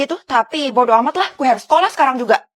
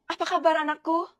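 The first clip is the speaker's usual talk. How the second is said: creepy smiling mother; 10 dB quieter than usual. Acted. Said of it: "Serem banget".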